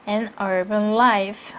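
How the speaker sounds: "life" weighted and falling; slow reading landing on "life"; stress on life. Shown as a demonstration. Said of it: "명사에 강세 주시고요". ("life"에 강세를 주어 천천히)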